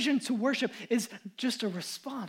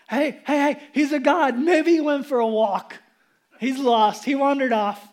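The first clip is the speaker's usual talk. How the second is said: louder sarcastic jeering; loud mocking taunt; 5 dB louder than usual. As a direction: rub it in with exaggerated concern. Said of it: "He's mocking them".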